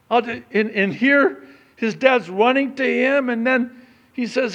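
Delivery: loud, high, fervent preaching; preaching at full force. Acted. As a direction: preach it out from the pulpit.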